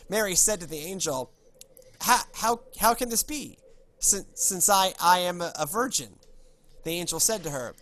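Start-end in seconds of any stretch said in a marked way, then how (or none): 2.0-6.2 halting, higher-pitched, louder questioning; flustered disbelief. Acted. Mary questioning the angel about a virgin birth, flustered. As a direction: stammer it out, taken aback. Acting Mary's startled reply to angel.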